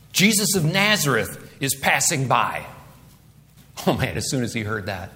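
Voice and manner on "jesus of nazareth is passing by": lightly voiced bystander announcement; crowd member announcing. Crowd tells the blind man who is passing, announcing. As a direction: tell him who is coming, firmly. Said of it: "They told him Jesus is passing by".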